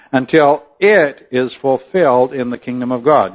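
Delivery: "it" in "until it is fulfilled" pressed as the key word; preacher leaning on "it"; stress on IT. Shown as a demonstration. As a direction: point to "it" with emphasis. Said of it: "I emphasize the word it".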